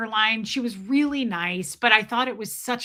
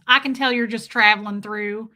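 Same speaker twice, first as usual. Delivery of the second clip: louder mock Southern server; Southern accent; 5 dB louder than usual. Server to a customer passing through, mock Southern accent. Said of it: "I'm good at this accent".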